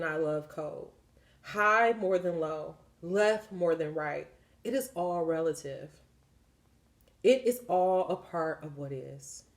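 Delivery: low, measured reading of a spiritual book; reading aloud. Real, not acted. Reading God's words from a book to listeners, measured read-aloud.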